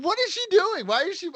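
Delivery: very high-pitched, incredulous questioning; acted disbelief. Hearing coworker took his joke seriously, mock incredulous. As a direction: retell it aghast, voice leaping way up.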